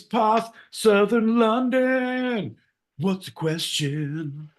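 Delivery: playing a prim Londoner in a put-on English accent; mock posh English accent. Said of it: "we're gonna do accents".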